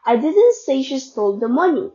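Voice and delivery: "money" stressed at the end. Shown as a demonstration. Student showing she stole something else, stress on "money". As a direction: put the weight on "money". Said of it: "meaning she stole something else".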